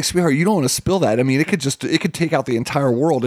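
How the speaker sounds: lightly voiced dad, mock-dire warning. Dad teasing his daughter about the drink, light mock-dire tone. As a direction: scare her playfully. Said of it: "I was like".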